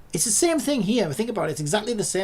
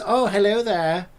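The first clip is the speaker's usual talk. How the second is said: mock cheery assistant; 2 semitones higher, 5 dB louder than usual. Mocks the AI's cheery voice.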